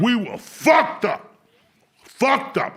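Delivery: loud, high, slow laughing shout. Real, not acted. Recalling the mushroom night with his friend, laughing shout. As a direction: bellow it through laughter.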